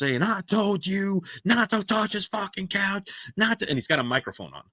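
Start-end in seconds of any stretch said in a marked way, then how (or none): 0.2-3.7 raving, very high-pitched, drawn-out screaming rant. Retelling how a wrestler screamed about his damaged couch: imitating someone screaming. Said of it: "he starts screaming".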